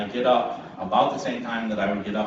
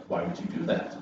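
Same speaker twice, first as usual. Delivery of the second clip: soft, breathy, lower wife's question; hushed wife; 6 semitones lower, 5 dB quieter than usual. Retold or imitated. Wife questioning her husband in a hushed, lower voice. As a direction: ask it quietly, shaking your head.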